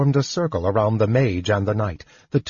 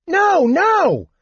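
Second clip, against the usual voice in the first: very high, louder kender voice; excited, high-pitched protest; calling back; 5 dB louder than usual. A narrator's reading. Kender refuses to turn back, calling high and eager. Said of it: "Tass called back".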